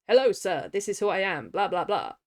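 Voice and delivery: a hint of a barking, upward Athos; Athos voice demo. Shown as a demonstration. Reader demonstrating her Athos voice, a light bark. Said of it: "with a bit of a bark and a bit of an up".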